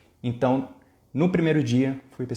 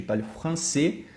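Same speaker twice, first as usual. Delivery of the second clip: French accent; 4 semitones higher, slower than usual. Shown as a demonstration. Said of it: "que nem do francês".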